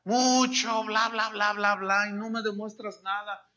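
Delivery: exasperated wife, scoffing at his bla bla; fed-up wife demanding proof; desperate wife. Retold or imitated. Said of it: "la señora desesperada dice". (esposa harta y desesperada, en tono de burla)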